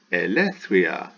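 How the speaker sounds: "Elethwia" slowly as e-le-THWI-a; Greek word demonstration. Shown as a demonstration. Teacher rejoins the syllables for students, slow whole word. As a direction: draw out "Elethwia" as one joined word.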